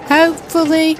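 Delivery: high, wry, doubtful hopefully; Hopefully said as a hopeful shrug; doubtful echo. Real, not acted. Doubtful echo of own hope.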